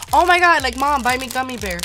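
mock excited begging; a hammed-up child asking Mom; mock excited kid. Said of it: "I'm never like".

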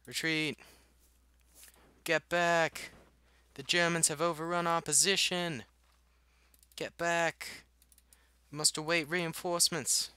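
high, loud battlefield orders; hammed-up soldier shouting a retreat; mock Soviet commander. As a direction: call out orders in a put-on officer's voice. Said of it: "Even though that's not a Russian accent".

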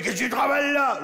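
milder repeat of the Champagne spider voice; Champagne accent. Acted. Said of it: "une araignée champenoise de chez moi". (accent champenois, interpellation aiguë)

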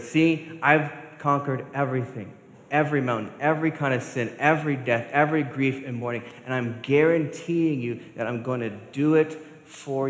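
declaring it to the whole church; preaching Jesus' promise. Acted. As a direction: proclaim victory over every grief.

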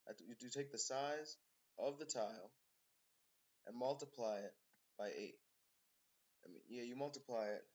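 winded, catching breath between phrases. Real, not acted. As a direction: talk while still short of breath. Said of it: "I'm just catching my breath".

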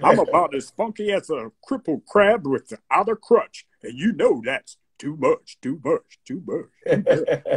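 lightly imitated radio DJ patter; a hint of a deep-voiced radio showman; Hank Spann's deep voice. Fan lightly imitates his mentor's funky catchphrase, DJ patter. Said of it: "he had a real deep voice".

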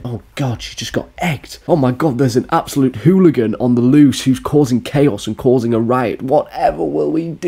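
hammed-up alarm of a bystander; mock panic. Onlookers after she just got egged, mock panic. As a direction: start hushed, then rise into mock-dramatic dismay. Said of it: "everyone's looking around and going".

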